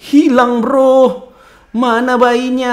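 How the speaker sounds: loud, high alarmed report; loud high startled cry. Real, not acted. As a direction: blurt it out in alarm. Alarmed the baby is gone.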